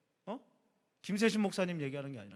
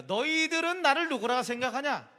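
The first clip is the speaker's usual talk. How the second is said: playful, higher and teasing question; flippant asking; 6 semitones higher, 3 dB louder than usual. Retold or imitated. Pastor mocking a cheeky Jesus asking disciples, playful. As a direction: ask it with a cheeky swagger. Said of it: "이렇게 까불면서 물어보진 않았을 거야".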